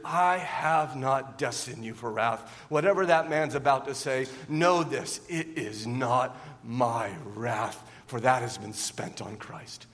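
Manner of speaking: low, slow and soft, a calm divine reassurance; quiet, slow, reassuring voice of God; gentle voice of God. Pretend. And God would say.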